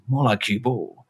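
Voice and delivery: slow, deadpan tough-guy line; action one-liner. Retold or imitated. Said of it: "he delivers it like an action one-liner".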